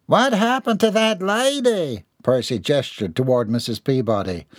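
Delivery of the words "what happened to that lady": put-on high, slow childlike asking; curious boy. Percy asks about the fainted lady. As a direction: ask innocently.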